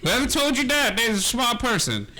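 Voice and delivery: put-on old woman cracking up mid-line; laughing old woman. Old woman giving the party a task, laughing. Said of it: "She goes".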